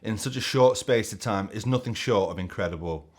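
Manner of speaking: a lightly done Mancunian Gary Neville voice; a loose, half-hearted Manchester accent as a pundit; a rough Gary Neville Manchester accent, barely shifted. Retold or imitated. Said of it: "these accents are terrible".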